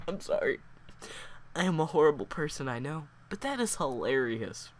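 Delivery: fluctuating voice, holding back real laughter; trying not to laugh. Real, not acted. Reader confessing she finds death hilarious, suppressed laughter. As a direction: apologise while fighting off the giggles. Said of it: "voice is really fluctuating because I'm trying not to laugh".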